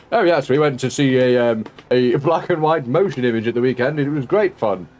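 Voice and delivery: lightly voiced old-fashioned gent; a hint of a 1940s picturegoer. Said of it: "The nineteen forties?".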